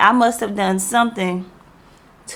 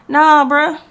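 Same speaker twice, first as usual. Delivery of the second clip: emphatic dismissal; 7 semitones higher, 7 dB louder than usual. Real, not acted. Laughing off the coworker's hope.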